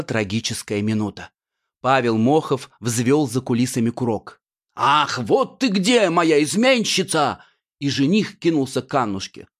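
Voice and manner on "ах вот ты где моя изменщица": a hint of a hammed-up stage villain; villain's entrance. The villain groom enters.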